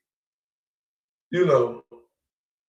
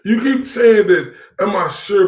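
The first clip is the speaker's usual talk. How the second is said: indignant mock; 5 semitones higher, 6 dB louder than usual. Real, not acted. Mocking rival's question.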